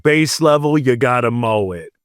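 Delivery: light mock German accent on the rules; hint of a put-on German accent. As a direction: lay on a playful German accent, bureaucrat listing rules. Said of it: "This is my German accent".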